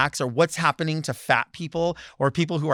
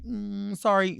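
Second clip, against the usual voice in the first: timid apology; 5 semitones higher, 3 dB quieter, slower than usual. Retold or imitated. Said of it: "not saying it with your chest".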